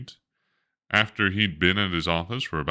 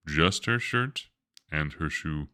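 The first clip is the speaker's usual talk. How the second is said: sad; 3 dB quieter than usual. Acted. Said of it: "Jane's mother sounded sad".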